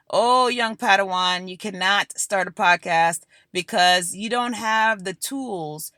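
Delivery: a hint of a sly Sith lord talking down; lightly voiced scheming mentor, patronizing; Chancellor Palpatine. Voice of fear whispering to a would-be podcaster, lightly voiced sly Sith lord. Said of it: "Chancellor Palpatine comes back in your ear".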